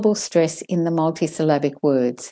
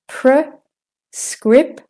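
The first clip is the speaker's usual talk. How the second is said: slow, higher "Prescription", split by pauses; syllable by syllable; 8 semitones higher, 4 dB louder, much slower than usual. Shown as a demonstration. Teacher demonstrates for learners, "Prescription" syllable by syllable. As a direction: break "Prescription" into pre, scrip, tion.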